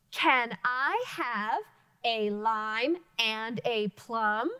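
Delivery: very slow, rising question tune; question intonation. Shown as a demonstration. Teacher modeling a question mark for students. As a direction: lift the end like a real question. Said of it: "so I needed to inflect my voice".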